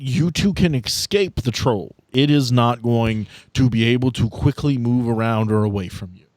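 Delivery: usual speaking voice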